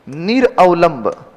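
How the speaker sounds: निरअवलंब slowly as nir-avalamb; slow teacher dictation of निरअवलंब; spelled out. Shown as a demonstration. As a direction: sound out निरअवलंब, syllable by syllable. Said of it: "निरा नहीं".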